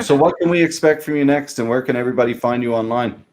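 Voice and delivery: slightly hurried double question; speaking fast. Real, not acted. Host asks guest what's next and where to find her, speaking fast. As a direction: run both questions together quickly. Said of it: "I'm speaking fast. I'm sorry".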